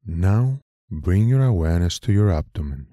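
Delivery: calm guiding voice with long pauses; guided meditation. Acted. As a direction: lead them gently through the breath, phrase by unhurried phrase.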